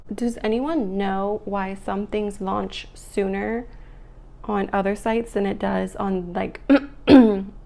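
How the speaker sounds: hoarse morning voice; a just-woken, hoarse voice. Real, not acted. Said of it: "my morning voice is coming out".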